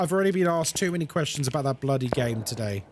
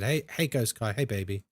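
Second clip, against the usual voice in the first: lightly put-on come-on, sinking lower; flirty developer; 6 semitones lower, 3 dB quieter than usual. Developers wooing a streamer by name, lightly flirty. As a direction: slide down into a mock-smooth greeting. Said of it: "They said".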